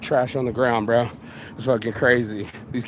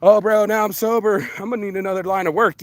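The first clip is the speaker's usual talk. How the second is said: lightly mocking whine; 5 semitones higher than usual. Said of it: "And everybody".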